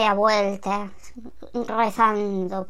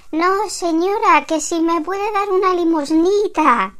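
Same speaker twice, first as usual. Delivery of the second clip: voz más aguda y lenta de pedigüeña; mendiga suplicando; 6 semitones higher, 4 dB louder than usual. Acted. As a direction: pide limosna con tono lastimero y lento. Mendigo pidiendo limosna en la puerta. (mendiga lastimera en la puerta, aguda y lenta)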